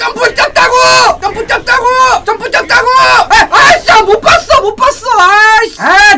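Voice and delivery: high-pitched frustrated protest; exasperated whine. Real, not acted. Streamer protesting over a missed jump, exasperated high whine. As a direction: insist in real, rising exasperation.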